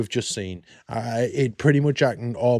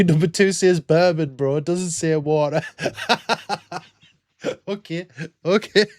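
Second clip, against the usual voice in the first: laughing; 6 semitones higher than usual. Real, not acted. Amused by clip's odd word.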